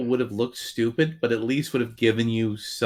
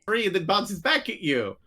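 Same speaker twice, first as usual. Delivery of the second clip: put-on higher, childish playground taunt; playground kid; 8 semitones higher than usual. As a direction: play a kid bragging mid-game. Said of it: "two little kids on the playground going".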